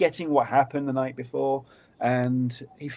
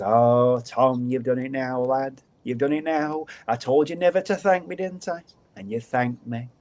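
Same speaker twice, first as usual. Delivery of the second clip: gloating creature; 2 semitones higher than usual. Acted. Creature to Tom after thanks, gloating imp voice. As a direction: gloat over him like an imp.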